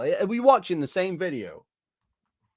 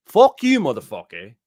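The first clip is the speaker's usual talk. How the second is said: angry shout; 3 semitones lower, 6 dB louder than usual. Real, not acted. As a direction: spit it out at the top of your voice. Insulting the uploader.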